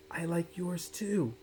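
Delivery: put-on a little girl's soft whispered answer. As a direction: whisper it back shyly across the desk. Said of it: "whispered Ruby".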